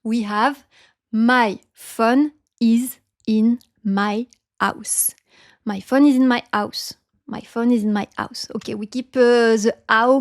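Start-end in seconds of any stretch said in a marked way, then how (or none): 1.1-5.1 slow French accent, PHONE as short "fon"; French-accented HOUSE with the H dropped; word by word, French pure vowel in PHONE; French accent, no diphthongs. Shown as a demonstration. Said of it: "we forget about these diphthongs". 5.6-8.5 French accent with PHONE as "fon"; connected French-accented phrase, HOUSE without its H; French pure vowels, said fluently; French accent, no diphthongs. Shown as a demonstration. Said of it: "we forget about these diphthongs".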